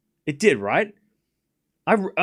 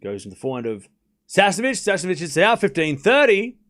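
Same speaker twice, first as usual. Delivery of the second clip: live tennis play-by-play; faster than usual. Real, not acted. Streamer calls Sasnovich's rally going out, live play-by-play.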